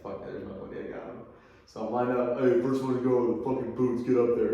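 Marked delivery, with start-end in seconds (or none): 0.0-1.2 whispered glee. Retold or imitated. Relieved inner thought, unvoiced. 2.4-4.5 a loud drill sergeant calling the next recruit; half-acted sergeant shout; barking sergeant.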